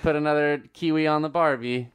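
hammed-up Aussie with a laugh; mock Australian accent, laughing. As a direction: shout it like a cartoon Aussie at a barbecue. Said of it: "over here in Australia town".

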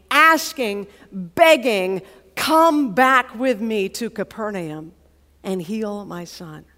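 insistent, emphatic appeal that slows and softens at the end; earnest plea. Acted. Acting the father pleading with Jesus.

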